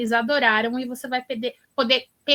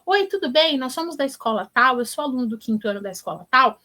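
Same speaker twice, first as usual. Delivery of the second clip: confident kid on the phone, lightly imitated; self-assured phone pitch, acted out; speaking with conviction. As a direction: greet brightly, then introduce yourself with assurance. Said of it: "se você não falar com vontade".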